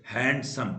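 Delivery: हैंडसम in two beats, हैंड, सम; syllable split. Shown as a demonstration. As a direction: sound out हैंडसम as हैंड plus सम. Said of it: "दो tone बन गई".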